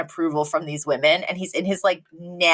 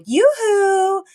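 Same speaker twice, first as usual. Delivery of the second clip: yoo-hoo call; 13 semitones higher than usual. Retold or imitated. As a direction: call it out across the court. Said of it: "we hear someone go".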